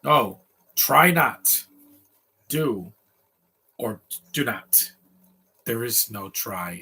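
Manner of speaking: lightly voiced sage, very slow with long pauses; film-quote imitation. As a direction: slowly intone it like a wise master, lightly imitated. Quoting Yoda along with film.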